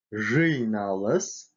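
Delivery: "Жиналыс" with a hard и, close to ы; hard vowel. Shown as a demonstration. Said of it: "В твёрдых словах читается твёрдо". (твёрдое «и» в слове «Жиналыс»)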